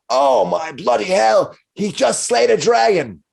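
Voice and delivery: high, slow awed exclamation; tipsy miner gasping in awe; amazed miner. Acted. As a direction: marvel at the hero. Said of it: "one of them says".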